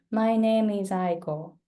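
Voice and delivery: "My name is Aiko" flat, same strength throughout; really flat. Shown as a demonstration. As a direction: run "My name is Aiko" evenly without stresses. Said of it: "then it's really flat".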